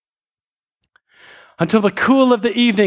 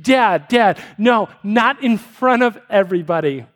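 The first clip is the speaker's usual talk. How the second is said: put-on protesting girl. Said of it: "and she says".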